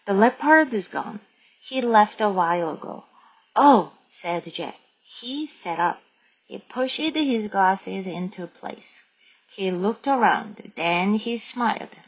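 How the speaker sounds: slow, measured read-aloud; story narration. A narrator's reading. Teacher reads Jack's gorilla act to learners, slow narration. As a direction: read the story out slowly, phrase by phrase.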